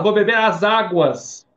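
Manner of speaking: loud, slow "as águas"; unnatural plural. Shown as a demonstration. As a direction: stretch out "as águas" with the final s. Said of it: "Ninguém fala".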